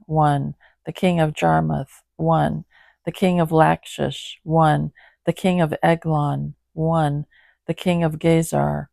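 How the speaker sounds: measured, even Bible reading; scripture reading. Acted. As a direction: read the passage steadily aloud. Reads list of kings.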